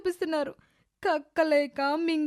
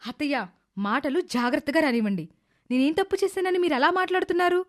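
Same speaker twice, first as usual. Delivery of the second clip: angry retort. Acted. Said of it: "నాకు కోపం వచ్చింది".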